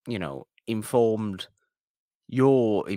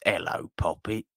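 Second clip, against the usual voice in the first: breathy whispered British "Hello, Poppet"; mock British pirate whisper; whispered British accent; 3 semitones lower, 3 dB quieter than usual. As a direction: whisper it like a sly pirate Brit. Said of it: "the one dude from Pirates of the Caribbean who says".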